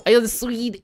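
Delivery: half-hearted mock Swedish accent; playful stab at a Swedish accent; Swedish accent attempt. Shown as a demonstration. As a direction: try a throaty Swedish accent. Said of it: "You have to really speak, like, in your throat".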